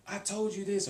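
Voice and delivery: a touch of irritated told-you-so; exasperated. Shown as a demonstration. Teacher demoing the ma particle's annoyed tone. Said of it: "little bit of anger or something like that".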